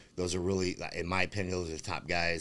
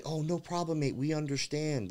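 mocking promoter voice; 8 semitones higher than usual. Mocking promoter's own words.

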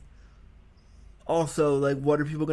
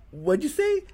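shocked; 12 semitones higher than usual. Retold or imitated. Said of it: "and I went".

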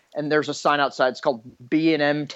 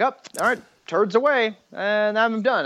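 put-on seven-year-old son; 6 semitones higher than usual. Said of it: "he's like".

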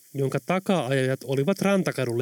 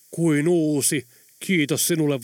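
cheerfully; slower than usual. Acted. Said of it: "vastasi Tom Tom iloisesti".

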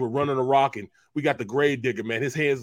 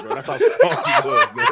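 squeaky high laugh through words; laughing squeal; 7 dB louder than usual. Real, not acted. Telling about his strength, laughing squeakily high.

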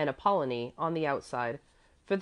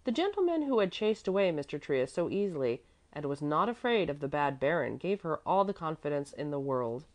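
usual speaking voice

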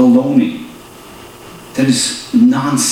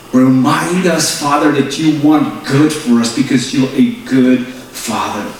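prayer. Acted. Pastor praying over church and viewers, earnest building prayer. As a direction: pray it out, rising in fervour.

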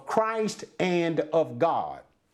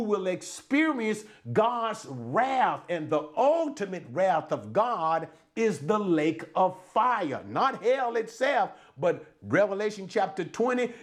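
preaching. Real, not acted. Preacher warning congregation of God's wrath, preaching. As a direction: preach it at the flock. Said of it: "Okay, I'm preaching".

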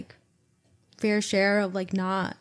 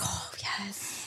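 a breathy whispered yes, much softer; whispered relief; 16 dB quieter than usual. Retold or imitated. Finally allowed to cry, whispering with relief.

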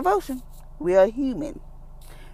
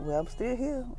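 Jesus; 4 semitones higher than usual. Acted. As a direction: gently voice a patient, reassuring figure, pitched up. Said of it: "And Jesus like".

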